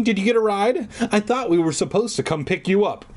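a hint of a mom calling. Mom asking Amy about her ride, calling out. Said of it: "Mom called from the kitchen".

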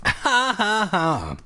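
high, staged "ha ha ha"; a falling, hammed-up fake laugh; mock laugh. A narrator's reading. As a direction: read out a high pretend laugh. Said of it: "Ashley burst out laughing".

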